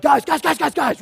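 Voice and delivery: high, loud repeated call; shouting over kids. Retold or imitated. Dad shouting over his fighting daughters, loud and high. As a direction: shout them down, one call after another. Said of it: "I try to shout over it".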